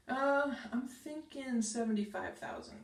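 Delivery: hesitant with a rising end; tentative, seeking approval; unsure lilt upward; weak, unsure. Shown as a demonstration. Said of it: "here's another weak one".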